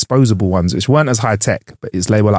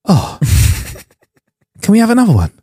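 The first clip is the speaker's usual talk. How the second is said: pleading; 10 semitones higher, faster than usual. Retold or imitated. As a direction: beg like a whiny child. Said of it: "during lockdown was like".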